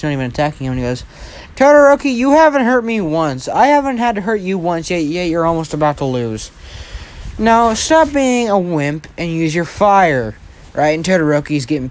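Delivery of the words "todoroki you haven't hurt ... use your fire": high, emphatic taunt; acted challenge, high and insistent; goading. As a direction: goad your opponent, pitched well up. Taunting rival to use fire.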